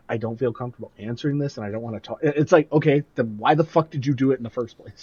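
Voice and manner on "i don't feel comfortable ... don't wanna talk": soft spoken. Retold or imitated. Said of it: "so soft spoken".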